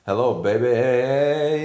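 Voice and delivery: slow, drawn-out mock catcall; street gang catcall. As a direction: stretch it out like a lightly voiced heckler. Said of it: "local street gang, you know, who are like".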